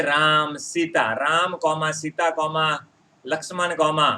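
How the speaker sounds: drawn-out "Ram", stop, "Sita"; measured list, "Ram comma, Sita comma, Lakshman comma"; pauses at commas. Shown as a demonstration. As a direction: leave a beat after "Ram", "Sita" and "Lakshman". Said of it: "कुछ समय के लिए रुक रहा हूँ".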